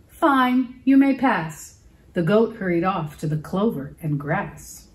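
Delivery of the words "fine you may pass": grudging troll. A narrator's reading. Troll gives in.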